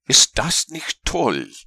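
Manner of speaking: gerufen. A narrator's reading. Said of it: "rief der Winnie von dort oben zu".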